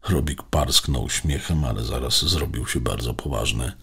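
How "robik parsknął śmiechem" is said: plain reading voice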